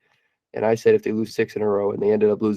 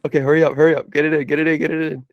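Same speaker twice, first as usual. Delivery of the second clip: urgent; 4 semitones higher, faster than usual. Real, not acted. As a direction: press him to plug in. Urging plug in.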